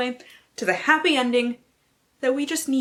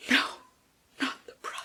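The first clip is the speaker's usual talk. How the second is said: mock gasp; 4 semitones higher, 7 dB quieter, much faster than usual. Mock dismay at blurb.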